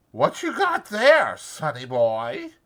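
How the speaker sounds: high, slow, teasing woman's voice; Curly's wife, teasing. A narrator's reading. Curly's wife teases Lenny, high and coy. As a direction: coo at him playfully.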